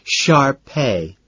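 "Sharpei" with weight on the final syllable; flirty correction, "Sharpei" stressed at the end; stress on last syllable. A narrator's reading. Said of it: "Accent on the last syllable".

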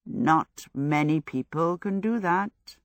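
slow and musing; thoughtful. Acted. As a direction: weigh each word slowly. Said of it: "Howl said thoughtfully".

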